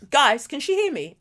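retold dumbfounded query; stunned shock. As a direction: imitate someone caught out, asking the room. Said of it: "It was the shock".

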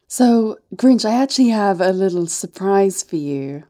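lightly acted teasing seductress; coy set-up in a put-on accent; Martha May. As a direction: play the flirty visitor. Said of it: "Martha May".

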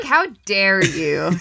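slow, drawn-out playful outrage; mock indignation. Book fan defending Charlotte's Web, mock indignant. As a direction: draw it out, offended in jest.

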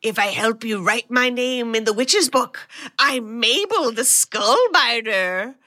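lightly voiced grand boast, slowing at the end; a hint of a proud old warlord; boastful demon lady. Mabel bragging to the heroes about her legions, lightly voiced. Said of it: "the woman they're talking to says".

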